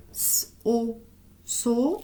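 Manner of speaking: hissed S, then O, blended into "so"; teacher sounding out "so" sound by sound; syllable blending demo. Shown as a demonstration. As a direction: sound out S, O, then join them as "so". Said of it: "ça se lit comme ça".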